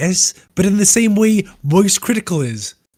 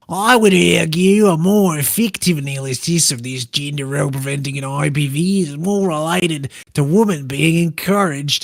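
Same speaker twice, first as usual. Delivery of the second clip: put-on Australian accent. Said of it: "It's just a pirate accent".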